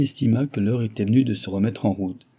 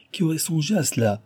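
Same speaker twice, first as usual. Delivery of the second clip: higher-pitched, marvelling question; enthusiastic wonder; 7 semitones higher than usual. A narrator's reading. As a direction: marvel at the audacity of it. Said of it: "l'enthousiasmait au plus haut point". (avec enthousiasme)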